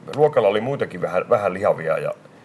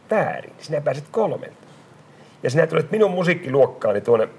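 higher, firm teacher giving detention; stern teacher; 6 semitones higher than usual. Retold or imitated. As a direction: hand down the punishment with authority. (opettaja määrää jälki-istunnon, napakasti)

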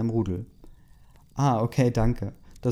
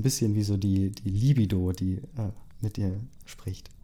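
whisper. Real, not acted. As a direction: drop to a secret whisper. Whispered aside about libido.

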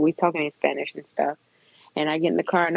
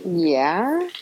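hesitant, questioning yes; confused. Retold or imitated. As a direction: draw it out with a swooping rise. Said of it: "then she started looking confused".

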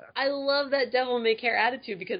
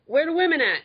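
mock demanding; 9 semitones higher, 5 dB louder than usual. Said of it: "I think we're just like".

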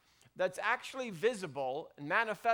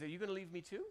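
softer, sadder take of the question; quiet hurt question; 8 dB quieter, much faster than usual. Retold or imitated. Jesus asks his inner circle, quietly hurt. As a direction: let it fall quiet and wounded. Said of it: "and he says".

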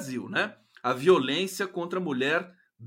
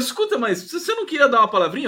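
laughing retelling; 7 semitones higher, 5 dB louder, faster than usual. Retold or imitated. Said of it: "aí eu falava".

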